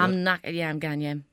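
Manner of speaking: understated retry at Geordie; attempted Geordie accent. Shown as a demonstration. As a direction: copy a Geordie, quietly trailing down. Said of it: "give up on the Geordie accent".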